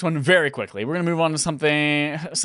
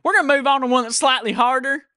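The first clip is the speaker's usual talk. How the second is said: louder retake; 8 semitones higher, 4 dB louder than usual. Shown as a demonstration. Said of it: "Oh, sorry".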